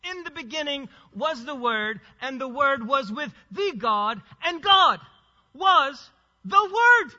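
preacher driving the verse home; emphatic scripture declamation. Real, not acted. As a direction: proclaim the verse in weighty separate phrases, rising in force.

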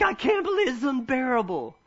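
high-pitched mock child's whine; whiny toddler. Preacher mimics a toddler stuck in timeout, high whine. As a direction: play the outraged little kid. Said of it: "'Cause they're like".

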